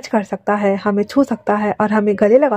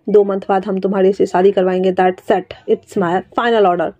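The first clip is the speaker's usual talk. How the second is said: stern final order; slower than usual. Acted. Uncle lays down the law.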